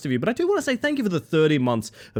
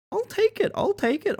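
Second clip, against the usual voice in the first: squeaky high voice. Pretend. Playful reaction to a Meowdy.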